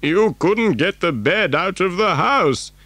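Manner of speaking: put-on old grandfather's character voice; doubting Grandpa Joe. Grandfather saying the bed will not fit, doubtful. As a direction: object in a doubtful old man's voice.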